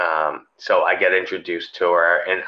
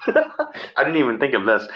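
laughing while talking; 5 semitones higher than usual. Real, not acted. Laughing at the funny thought.

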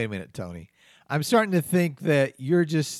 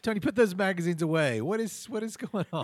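exasperated shout; 4 semitones higher than usual. Acted. Exasperated at Tony.

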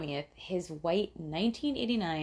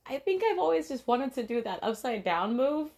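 hijacker voice; 8 semitones higher than usual. Retold or imitated. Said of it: "He's like".

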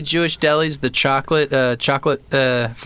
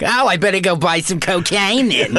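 hammed-up stereotype Jewish voice, pitched up; caricature Jewish voice; 4 semitones higher than usual. Comic joking about going to buy something, mock Jewish caricature voice. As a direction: put on an exaggerated comic Jewish character voice. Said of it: "make a really Jewy voice joke".

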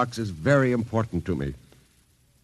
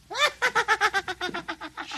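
very high, mocking little cackle; tiny fiend laughing at him; evil doll cackle; 5 dB quieter than usual.

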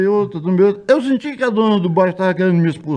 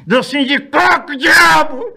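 high, slow shouted catchphrase; shouting; 10 semitones higher, 4 dB louder, slower than usual. Retold or imitated. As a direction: yell it from the back of the crowd. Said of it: "deu uma vontade de gritar igual ele".

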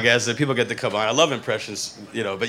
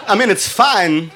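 higher, drawn-out near-miss Walken; rough Walken attempt; 5 semitones higher than usual. Shown as a demonstration. Host admits sounding like Walken's cousin, rough impression. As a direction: do a so-so Walken, stretched out. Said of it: "I sound like his cousin".

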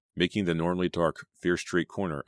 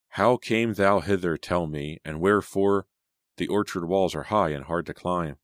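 play reading; 3 dB louder than usual. A narrator's reading. Selena reading her lines for the play, declaimed. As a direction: recite it with stage projection.

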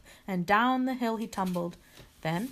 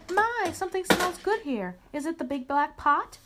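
high, loud storybook hen; pleasantly surprised hen; 8 semitones higher, 5 dB louder than usual. A narrator's reading. Hen sniffs Little Bear's soup, pleasantly surprised and high-voiced. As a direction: exclaim over a lovely smell.

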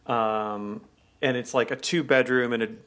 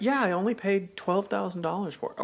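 mock bragging gush; 6 semitones higher than usual. Mock American bragging about a bargain.

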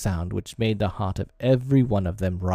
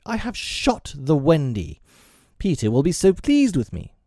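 proud boasting; 7 semitones higher than usual. A narrator's reading. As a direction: brag as if expecting praise. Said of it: "he cried proudly".

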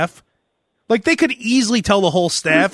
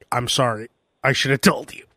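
much softer, lower sheepish apology; 11 semitones lower, 6 dB quieter than usual. Retold or imitated. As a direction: mumble it like you feel guilty. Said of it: "He's like".

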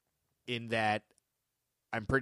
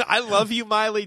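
laughing mock love; 8 semitones higher, 10 dB louder than usual. Mock declaration to Miley, laughing.

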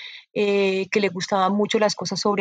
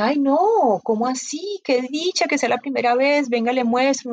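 higher, delighted retold welcome; 3 semitones higher than usual. Bookseller welcomes a first-time visitor, delighted. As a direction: act out a gushing, reassuring welcome.

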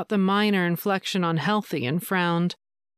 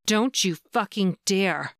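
slow, fierce snarl. Acted. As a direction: growl it slowly. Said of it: "she snarled".

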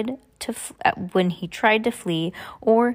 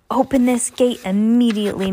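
higher, louder yell at the gate; 5 semitones higher, 5 dB louder than usual. A narrator's reading. Mister Poe yells at Olaf through the locked gate. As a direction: demand it open. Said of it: "Mister Poe yelled".

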